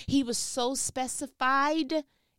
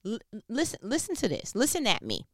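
a hint of an old-time Baptist preacher calling the church to listen; faster than usual. Shown as a demonstration. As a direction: lean into "Listen at me" like a Black church elder, lightly. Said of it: "I'm about to be an old Baptist church".

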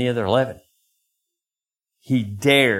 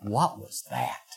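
dejected muttering; 4 semitones lower, 9 dB quieter, slower than usual. Retold or imitated. Shaking my head like.

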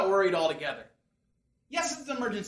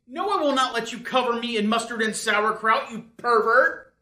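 indignant shout; 5 dB louder than usual. Acted. Indignant outburst.

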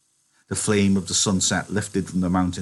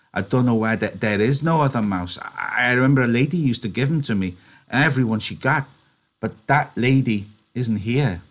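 put-on higher, stammering sad childlike voice; Lenny, dejected; 4 semitones higher than usual. Lenny sadly explaining the mouse lady, dejected. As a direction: mourn the lost mouse.

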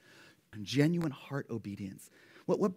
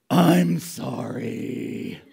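sulky apology; 11 dB louder, much slower than usual. Retold or imitated. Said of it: "make sure you know".

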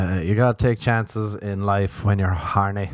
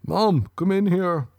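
calling mom; 9 semitones higher, slower than usual. Retold or imitated. Imitating friend calling mom.

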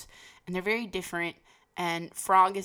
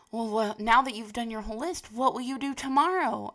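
lightly voiced Frog; 6 semitones higher, 6 dB louder than usual. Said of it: "Frog is like".

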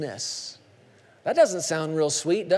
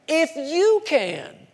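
incredulous echo; 8 semitones higher, much slower than usual. Acted. Jesus echoing incredulously.

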